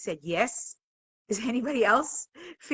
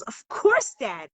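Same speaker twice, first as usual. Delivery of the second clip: put-on young son's voice; slower than usual. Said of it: "And Adam goes".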